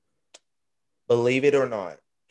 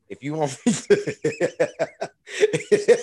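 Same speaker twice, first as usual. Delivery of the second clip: digital echo; 7 semitones higher, 4 dB louder, much slower than usual. Real, not acted. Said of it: "Fucking echo".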